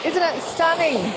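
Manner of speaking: hoarse, strained voice. Real, not acted. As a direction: push through a lost voice. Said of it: "sorry, I got no voice today".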